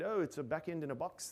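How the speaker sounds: best-effort put-on Australian accent. Quoting his friend Damien Edwards, who is present today: Damien Edwards, Australian accent. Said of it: "That's my best Australian accent".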